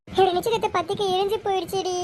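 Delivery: tearful. Acted. Elder sister tells younger the invitation burnt, tearful. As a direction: break the bad news close to crying. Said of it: "அக்கா அழுகாதக்கா".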